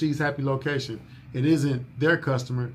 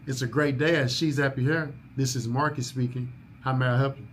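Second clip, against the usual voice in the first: professional phone greeting. Shown as a demonstration. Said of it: "the only way to answer the phone here".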